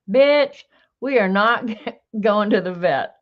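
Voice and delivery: loud, high mock cat outburst; cat's sassy retort. Reading a cat caption aloud, loud sassy cat voice. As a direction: bark it out as a bratty cat.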